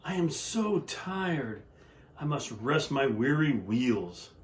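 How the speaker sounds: put-on weary old engine voice; lightly voiced tired old engine; tired sighing old engine. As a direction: sigh it out, too worn to try. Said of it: "the rusty old engine sighed".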